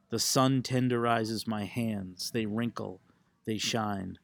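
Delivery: measured poetry recital, punched line openings; poem reading. Acted. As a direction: read it as a poem, phrase by phrase, falling at line ends. Reads own poem aloud.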